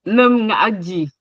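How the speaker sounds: "nom nga agi" with the word "nom" lifted and pushed; tone demonstration. Shown as a demonstration. Teacher modelling the tones of "nom nga agi". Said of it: "Donc, faute".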